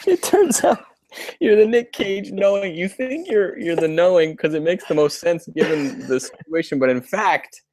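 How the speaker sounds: high, hammed-up twist narrator voice; playful mock reveal; mock dramatic reveal. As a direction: sell it like a movie plot twist. Mock dramatic reveal, Nick Cage.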